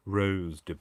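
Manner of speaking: Rose de in a loud mock French accent. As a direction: ham up the French. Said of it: "go down on a couple of octaves".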